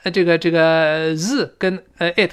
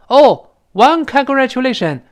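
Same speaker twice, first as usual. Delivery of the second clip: unenthusiastic congratulation; 7 semitones higher, 5 dB louder than usual. Acted. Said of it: "这显得就不那么热情了".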